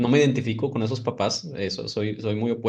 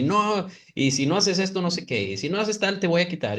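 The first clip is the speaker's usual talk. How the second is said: imitated scolding parent; 6 semitones higher than usual. Parent warning a child about taking things away, mock scolding. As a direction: rattle off a parent's warnings, pitched up.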